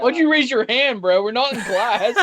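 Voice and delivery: loud ribbing; teasing. Real, not acted. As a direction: rib the friend.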